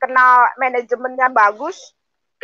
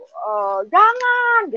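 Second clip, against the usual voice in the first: wished-for no; 10 semitones higher, much slower than usual. Retold or imitated. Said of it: "saya inginnya ada yang melarang".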